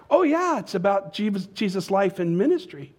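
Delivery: light up with joy at last; delighted bartender. Acted. Bartender thrilled by right answer.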